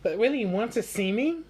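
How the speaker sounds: high, loud plea; crying out. Acted. Pinocchio calling after Lucia, high and hopeful. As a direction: call out hopefully after her. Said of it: "Pinocchio cried out".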